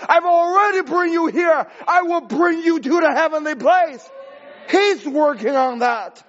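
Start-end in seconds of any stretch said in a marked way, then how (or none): 0.1-4.1 God speaking. Acted. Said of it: "The Word of God has said".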